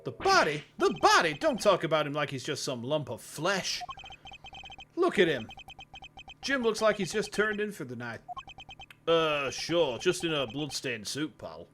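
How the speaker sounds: mildly indignant, showy jock voice; a hint of hammed-up offence; over-the-top jock. Jock objecting to talk of his partner's body, lightly hammed-up. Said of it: "I just kinda went for this voice".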